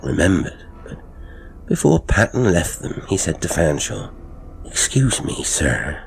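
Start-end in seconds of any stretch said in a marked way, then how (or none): 4.6-6.0 deferential servant. Acted. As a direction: ask politely, like a careful old servant. Patton, servant, questions Fanshawe.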